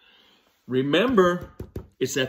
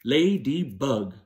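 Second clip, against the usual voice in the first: "Ladybug" slow, three beats, a little quicker; slow syllables; slower than usual. Shown as a demonstration. Teacher repeating "Ladybug" on fingers, slow. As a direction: count "Ladybug" on fingers, slowly. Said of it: "clap the syllables in ladybug".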